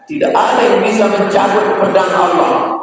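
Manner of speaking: high shouted boast; the companions boasting, in a high shout; proud shout. Retold or imitated. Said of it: "mereka mengatakan".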